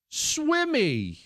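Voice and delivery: pitched high, stammering fake sob; high stammered sob-guess. Son fake-sobbing a guessed fish name, pitched high. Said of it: "And he goes".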